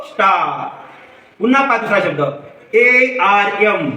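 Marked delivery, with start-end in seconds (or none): 0.0-0.7 स्टार with the आ held long; long आ sound. Shown as a demonstration. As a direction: model स्टार for learners, stretching its आ. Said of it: "या शब्दाला आपण कसं उच्चारतो". (स्टार मधला आ लांबवून उच्चार)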